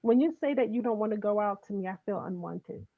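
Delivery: soft, gentle, caring tone; speaking in love. Shown as a demonstration. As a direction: say it tenderly to your partner. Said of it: "speak the truth in love".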